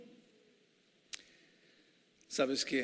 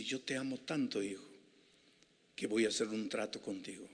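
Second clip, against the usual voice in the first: tender voice of Jesus; 2 semitones lower than usual. Acted. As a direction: speak like a loving father to a child. Voicing Jesus speaking tenderly.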